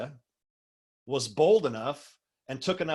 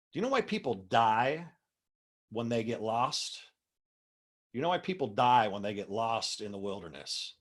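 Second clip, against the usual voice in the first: mildly acted calm, measured pauses. Anthony Hopkins to his freaked-out companions, very calmly. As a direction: quote it with understated composure. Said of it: "very calmly".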